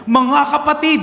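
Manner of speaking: high, loud cry to the congregation; preacher's shout. Retold or imitated. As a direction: bellow it like a fiery preacher. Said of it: "Talagang sumisigaw pa talaga". (sigaw ng paring nangangaral)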